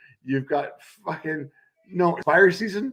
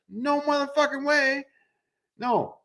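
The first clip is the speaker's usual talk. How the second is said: much higher squeal of horrified refusal; emphatic refusal; 12 semitones higher than usual. Real, not acted. A friend imagining great white sharks, high horrified no. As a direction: recoil at the very idea.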